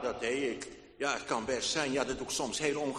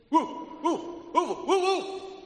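a howling dog, long and high; 11 semitones higher, 6 dB louder than usual. Acted. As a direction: howl it like a dog. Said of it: "En Castor die begint".

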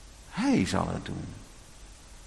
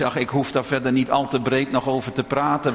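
ordinary delivery

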